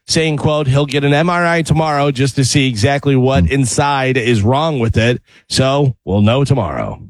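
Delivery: measured newscast delivery; news read. Acted. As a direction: read it as a radio news bulletin. Reads the sports item.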